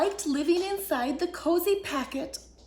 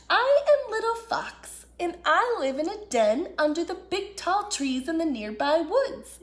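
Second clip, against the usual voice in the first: little fox; 3 semitones higher than usual. Acted. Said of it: "he explained".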